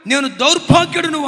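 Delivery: loud, high wail of wretchedness; anguished cry. Retold or imitated. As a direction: cry it out to heaven. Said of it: "ఏమని కేకలేశాడు?". (గట్టిగా ఆర్తనాదం)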